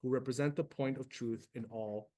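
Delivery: earnest reread of the prayer line; gentle prayer, fading at the end; prayer reading. Acted. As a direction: repeat the line with conviction. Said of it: "Beautiful line, guys".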